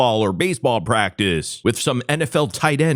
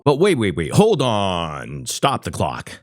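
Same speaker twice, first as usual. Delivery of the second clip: half-hearted catchphrase impression, sinking in pitch; a weak first stab at the catchphrase; Ronnie Munn; 3 semitones lower than usual. Host botching a borrowed catchphrase, half-hearted impression. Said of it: "Let me do that over because I'm doing Ronnie Munn dirty".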